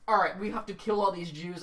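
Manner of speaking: put-on a failed German accent that drifts toward a French assassin's; a half-hearted German accent that slides into French; botched German accent. Imitating the villain's switch to killer in a botched German accent. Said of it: "French assassin accent".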